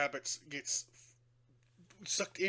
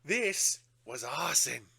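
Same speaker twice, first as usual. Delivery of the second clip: northern constable; 3 semitones higher, 5 dB louder, slower than usual. Retold or imitated. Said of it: "talking about".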